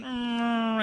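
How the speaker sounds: long held "mm" sliding into a slump; droning downward groan. Retold or imitated. Showing listeners how you go down in this pit, droning groan. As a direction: imitate going down with a drawn-out hum. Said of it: "you're kinda like going".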